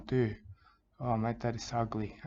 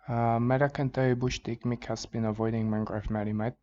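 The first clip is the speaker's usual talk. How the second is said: mock outburst; 5 dB louder than usual. Sudden outburst about rival.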